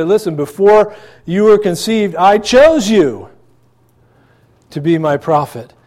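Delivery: lightly voiced God calling his prophet; a hint of God's solemn call. God speaking to Jeremiah.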